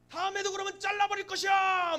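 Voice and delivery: high, shouted ultimatum; hammed-up screaming rage; furious threat. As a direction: roar it like a tyrant boss. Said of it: "뭐 분노에 막".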